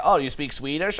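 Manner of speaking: ordinary delivery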